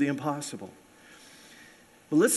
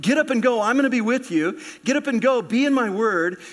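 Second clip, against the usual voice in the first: a louder, higher commanding voice of the Lord; God's command; 4 semitones higher, 3 dB louder than usual. Acted. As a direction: urge Joshua on, punching each "get up and go". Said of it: "here's the Lord saying".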